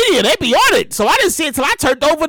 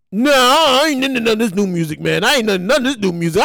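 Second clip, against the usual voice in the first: imitating an old head; 3 semitones lower than usual. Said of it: "I sound like an old head".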